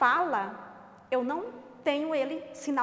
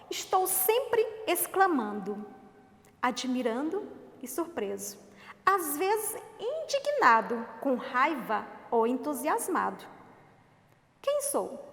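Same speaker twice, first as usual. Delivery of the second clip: playful, teasing riddle read; riddle for kids; slower than usual. Shown as a demonstration. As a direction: pose the riddle with a rising tease. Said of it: "riddle read to kids".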